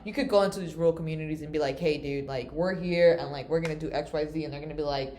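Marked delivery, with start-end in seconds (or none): 1.8-4.4 put-on country accent. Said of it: "I shouldn't have done a country accent".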